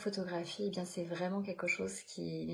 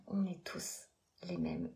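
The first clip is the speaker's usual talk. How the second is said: whispered aside. Real, not acted. Coach whispering to viewers that everyone is alike. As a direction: drop to a whisper to share a secret.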